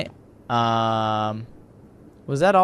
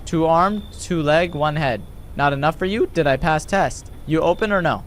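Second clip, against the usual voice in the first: halting, word-by-word delivery; lightly voiced blunt stranger; terse foreign visitor.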